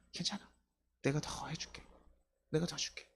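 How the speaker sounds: softly voiced, acted reassurance; soft, lightly acted comfort; tender reassurance. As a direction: play a gently reassuring partner, hushed. Loving partner reassuring the other.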